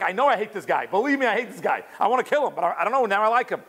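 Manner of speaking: acting out baffled self-protest, pitch climbing; bewildered. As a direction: play someone confused by his own change of heart. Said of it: "he's bewildered why he's crying".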